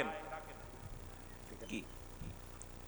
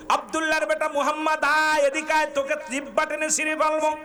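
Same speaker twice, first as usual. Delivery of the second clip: high-pitched mock taunting call; acted abusive threat; 5 semitones higher than usual. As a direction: hurl the threat in an enemy's role. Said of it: "নবীকে গালি দেওয়া শুরু করলো". (চড়া গলায় গালির অভিনয়)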